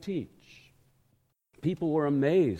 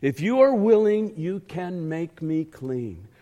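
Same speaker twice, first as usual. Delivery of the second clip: begging; 3 dB louder than usual. Acted. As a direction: plead like a supplicant on his knees. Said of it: "he begged him on his knees".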